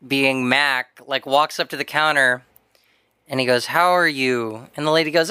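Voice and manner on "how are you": slightly glum, low and slow; low-energy mock greeting; glum customer greeting. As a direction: imitate a downbeat guy's greeting, drawn out. Voices Mac greeting boba clerk.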